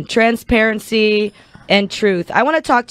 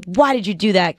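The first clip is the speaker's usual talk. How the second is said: scolding cat voice. Retold or imitated. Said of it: "cat voice".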